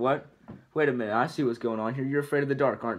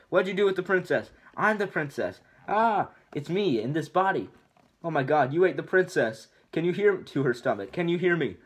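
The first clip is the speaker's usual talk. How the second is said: frantic higher pitch; 5 semitones higher than usual. Acted. Donkey frantic, thinks princess eaten.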